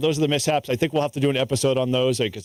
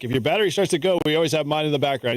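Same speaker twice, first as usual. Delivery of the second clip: joking offer; 3 semitones higher, faster than usual. Retold or imitated.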